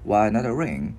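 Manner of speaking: "Why not a ring" joined up as one run; connected model of the whole question; linked words. Shown as a demonstration. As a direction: attach each word to the next in "Why not a ring". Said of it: "Thì mình cứ gắn vào thôi".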